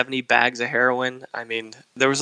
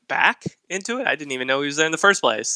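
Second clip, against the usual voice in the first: surprised disbelief; 4 semitones higher, faster than usual. Retold or imitated. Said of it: "they're like".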